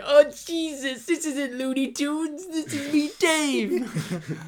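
high, loud exasperated cry; shocked character voice. Retold or imitated.

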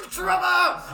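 very high, hammed-up cry of a name; mock dramatic yell. Player joking along with the Grung's outburst, mock scream. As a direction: scream the name like an anime character.

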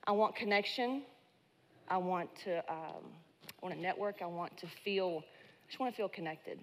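nervous shaky voice; a slight nervous tremble; voice shaking. Real, not acted. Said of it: "if you hear my voice shaking".

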